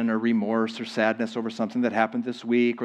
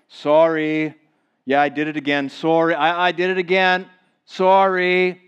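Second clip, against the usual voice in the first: shrugging sorry; 2 semitones higher, 4 dB louder than usual. Retold or imitated. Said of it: "some of you think that if you're repentant, you're just sorry".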